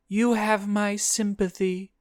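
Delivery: high-voiced demon offering sympathy; sincere creature condolence; sympathetic. A narrator's reading. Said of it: "The creature sounded legitimately sympathetic".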